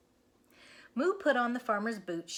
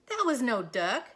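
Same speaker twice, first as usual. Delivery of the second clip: louder startled shout; 4 semitones higher, 7 dB louder than usual. Acted. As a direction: yell over the crash. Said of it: "shouted Moo".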